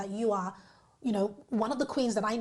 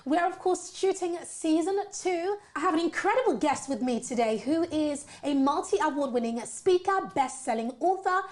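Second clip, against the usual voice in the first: upbeat presenter welcome with lively, swooping pitch; show host intro; 3 semitones higher than usual. Acted. Host welcoming viewers to season two and introducing her guest, upbeat presenter voice.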